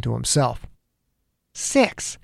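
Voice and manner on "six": breathless unvoiced gasp of a word; stunned; shocked whisper. A narrator's reading. Detective stunned by six dead kids, whispered.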